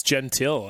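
"Gentile" said "JEN-till"; Americanized pronunciation. Shown as a demonstration. Co-host correcting "Gentile" to American "JEN-till". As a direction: say "Gentile" with hard English J and sounded L. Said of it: "'cause he's American".

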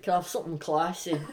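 quick, lightly put-on Scottish accent; mock Scottish accent. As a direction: order a drink in a shaky attempt at Scottish, heard as northern English. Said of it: "in a Scottish accent?".

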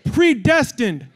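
firm, measured declaration; call and response. Shown as a demonstration. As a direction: call it out for the congregation to repeat. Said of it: "say it like you mean it".

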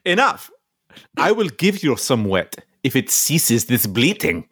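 Viking voice. Acted. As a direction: bark out a Viking command. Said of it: "I'll be Ivor".

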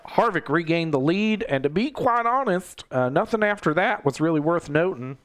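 lightly put-on folksy race recapper; a hint of a hammy TV personality; Michael Waltrip. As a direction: do a mild, silly recap impression. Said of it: "I do a stupid impression of Michael Waltrip".

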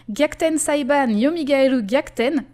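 title said in careful Japanese; Japanese pronunciation. Shown as a demonstration. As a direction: pronounce it the Japanese way, Gyakuten Saiban Yomigaeru Gyakuten. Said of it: "Pour flex un peu avec mon accent".

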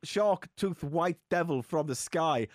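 slow mock Shakespearean declaiming; hammy stage actor. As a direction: ham up olde English verse. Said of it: "William Shakespeare's Sharknado".

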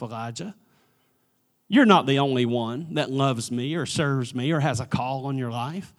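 soft, low, tender questioning; gentle voice of God. Pretend. God gently asking Elijah why he hides. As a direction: ask it quietly, like a loving father.

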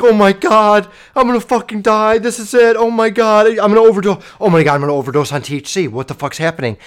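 high, loud re-enacted freak-out; acted-out panic. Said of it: "I'm freaking the fuck out".

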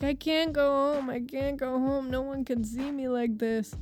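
mildly imitated tearful whine; mock a drunk man's weepy lament; retold crying. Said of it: "starts crying his eyes out".

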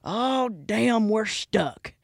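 high, loud panicked yelps, imitating friends; mock panic. Passengers panicking when the truck gets stuck, mock high panic. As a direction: squeal like a truckload of spooked passengers. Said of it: "everyone's freaking out".

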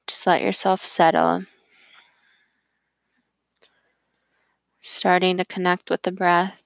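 calm, even voice, unhurried phrase by phrase; guided meditation. Acted.

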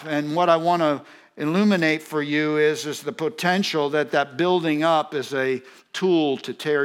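forceful preaching. Real, not acted. Preacher warning congregation how flattery works, forceful preaching. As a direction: drive each point home from the pulpit.

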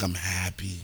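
a little tipsy and content; happily buzzed, drink in hand; while sipping a drink. Real, not acted. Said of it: "I sound like I'm drunk".

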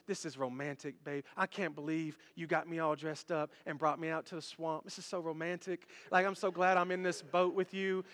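soft, low, dreamy murmur; swooning movie date. Acted. Charmed girl to her date in a swamp boat, softly swooning.

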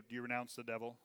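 a quiet, mild formula, half-hearted; soft, tame question. Shown as a demonstration. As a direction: say it gently, without authority. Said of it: "As opposed to".

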